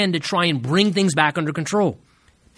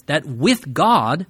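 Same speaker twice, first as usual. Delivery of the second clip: slow phrase with weight on "with"; stress on WITH; much slower than usual. Shown as a demonstration. Preacher shows the congregation the key word, stressing "with". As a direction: lean on "with", drawing out "with God". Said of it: "the emphasis upon the word "with".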